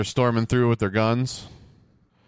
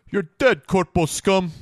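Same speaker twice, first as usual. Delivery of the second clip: mock battle cry; 11 semitones higher, 4 dB louder, slower than usual. Shooting enemies in game.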